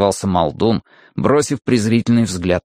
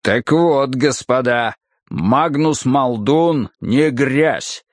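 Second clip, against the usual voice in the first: rumbling brute; 4 semitones higher, slower than usual. Acted. Muldoon's speech.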